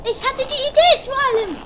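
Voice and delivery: "Idee" betont, ein wenig lauter gesagt; etwas lauter. Shown as a demonstration. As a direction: sag es deutlich lauter, damit es alle hören. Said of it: "Sag das mal lauter". (etwas lauter wiederholt)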